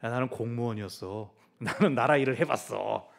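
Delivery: lightly voiced smug tax collector; mild mock bragging Matthew; Matthew boasting smugly. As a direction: boast of past office with a grin. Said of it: "웃으면서 얘기했을 겁니다".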